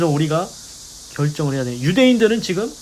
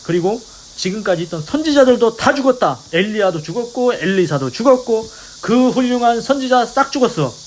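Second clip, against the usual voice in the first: raised, higher mock scolding; retold scolding shout; 5 semitones higher, 3 dB louder than usual. Preacher as Jews citing dead prophets, mock scolding. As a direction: hammer out the list as an imitated telling-off. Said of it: "소리 지르면서 이제 혼내듯이 얘기하는 거겠죠".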